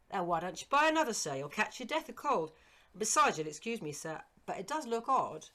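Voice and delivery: high, loud, eager servant's voice; eager old servant. Acted. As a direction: pitch up as the startled, fond old retainer. Servant William's voice.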